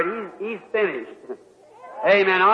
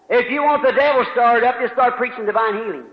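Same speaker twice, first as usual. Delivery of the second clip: shouted warning; 3 dB louder than usual. Real, not acted.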